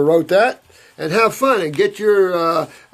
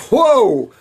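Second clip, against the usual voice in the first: mock alarm; 7 semitones higher, 4 dB louder than usual. Joking about kids too smart.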